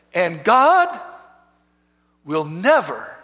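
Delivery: slow accusing voice, hard punch on the opening; Satan condemning. Retold or imitated. Satan tells a crying man he is condemned, slow accusation. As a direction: pronounce it like a damning verdict, pausing midway. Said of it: "this is what he said".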